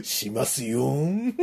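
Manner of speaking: 笑い混じりに語尾をのばしおどけて; ゆっくり茶化すように笑って; 笑いながらふざけて. Pretend. 相手の作り声を笑ってからかう. (笑いながらからかう声)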